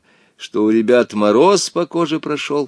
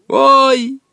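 put-on high ringing boy's yelp; ringing boyish cry; 13 semitones higher, 6 dB louder than usual. A narrator's reading. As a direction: yelp like a young boy. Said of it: "звонким мальчишеским голосом". (звонко, по-мальчишески)

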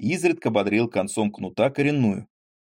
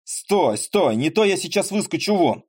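booming demand; 8 semitones higher, 3 dB louder than usual. Acted. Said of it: "загудел ему на ухо".

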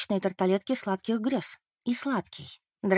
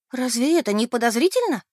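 indignant; 4 semitones higher, 3 dB louder than usual. Acted. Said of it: "возмутилась Бет".

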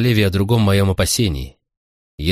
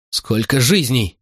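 slow anguished exclamation; exclaiming; 3 semitones higher, slower than usual. Acted. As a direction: cry out each word slowly. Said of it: "воскликнула она".

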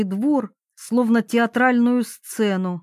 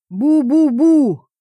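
loud, high, slow muffled boom through a mask; muffled gas-mask shout; 5 semitones higher, 6 dB louder, slower than usual. A narrator's reading. Max shouting through his gas mask, muffled. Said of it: "крикнул Макс".

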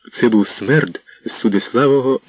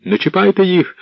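higher, raised call; 9 semitones higher than usual. Acted. Іванко calling to spare the retainers, raised call. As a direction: call out to stop them. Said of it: "гукнув Іванко".

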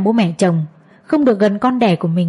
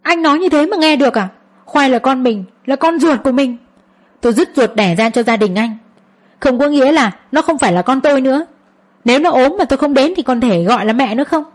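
angry outburst; 4 semitones higher than usual. Acted. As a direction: fling the words at your husband in rage. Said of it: "Tôi không nhịn được liền nổi đoá lên". (giận dữ vặn lại chồng)

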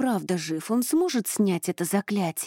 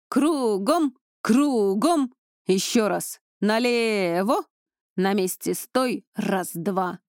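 drill orders; 3 dB louder, slower than usual. Acted. Instructor drilling squad.

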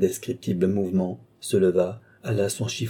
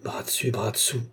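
softer, dismayed echo; 6 dB quieter than usual. Acted. Chon echoes Jean's bad news, softly repeating. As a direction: repeat it softly after him. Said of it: "répéta Chon".

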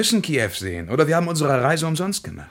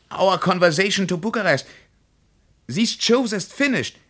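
phone call. Acted. Anruf bei der Vermittlung.

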